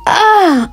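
short high-pitched "ah" cry; restrained storyteller's scream of pain; brief, high yelp at no great volume; mild acted scream. A narrator's reading. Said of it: "I screamed".

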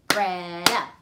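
loud "Logan" in two beats; clapped syllables. Shown as a demonstration. Teacher clapping a staff name with pupils.

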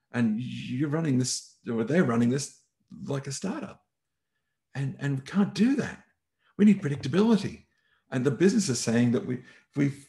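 rising from firm to high, loud exasperation; not calm, heated. Retold or imitated. General manager Rob venting at the Agile trainer, growing furious. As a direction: build from stern lecture to near shouting. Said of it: "it was not a very calm conversation".

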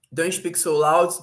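slow, careful English read-out; slow example read. Shown as a demonstration. Teacher reading an English example slowly to students. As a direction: spell out the example sentence slowly. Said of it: "reading example sentence".

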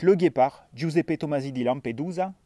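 « Giuseppe Tomasi di Lampedusa » avec un accent italien marqué, Le Guépard plus fort. Shown as a demonstration. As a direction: roule les noms à l'italienne, fièrement. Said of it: "avec un fort accent italien". (noms d'auteurs dits avec l'accent italien)

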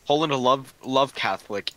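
broken caveman English; simple caveman speech; caveman talk. Pretend. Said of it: "Why are you talking like a caveman?".

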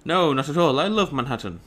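lightly posh English reading; posh accent. Acted. Gamer first reading a newcomer's reply about Manhattan, lightly posh accent. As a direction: give the line a touch of posh. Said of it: "this guy's really posh".

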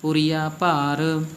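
slow ਪੁਰੀਆ with pure oral aa; no nasal ending. Shown as a demonstration. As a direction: draw out ਪੁਰੀਆ ਭਾਰ, no n colour. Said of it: "ਇਹ ਵੀ ਨਹੀਂ ਲਾਉਣੀ".

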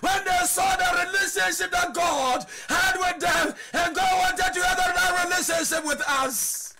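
preaching at full force. Acted. Pastor exhorts the congregation in a fervent preaching shout. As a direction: pour it out to the church.

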